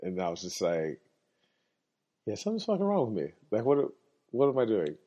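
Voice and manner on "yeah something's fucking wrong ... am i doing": higher, fast self-reproach. Retold or imitated. He catches himself arguing, fast higher self-reproach. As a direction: catch yourself mid-rant.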